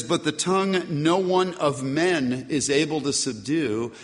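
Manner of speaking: "no one of men" set apart with emphasis; stress on "no one of men". Shown as a demonstration. Preacher showing Greek word order to congregation, stressing "no one of men". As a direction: lean firmly on "no one of men". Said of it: "And the stress there is".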